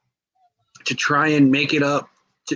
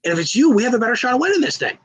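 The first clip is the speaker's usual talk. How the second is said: high, quick, upbeat talking-him-round voice; eager Slater; 6 semitones higher than usual. Retold or imitated. Slater convincing Shorty G it helps them both, high and fast. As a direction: sell the plan fast and brightly.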